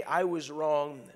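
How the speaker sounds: slow, weighted I was wrong; slow admission. Shown as a demonstration. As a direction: lay each word down slowly. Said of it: "If we say".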